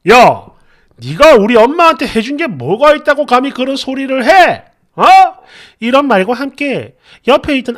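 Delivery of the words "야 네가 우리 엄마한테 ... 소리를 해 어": loud angry bark at his wife; hammed-up furious husband shouting; imitating husband's yell. Husband yelling, quoted.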